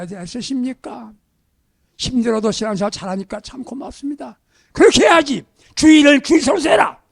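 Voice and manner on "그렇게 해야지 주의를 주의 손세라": higher, louder rebuke of the flock; stern scolding. Retold or imitated. Pastor scolding his believers, loud and stern. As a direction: bark a reprimand at the congregation. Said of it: "이렇게 혼내기만 했어요".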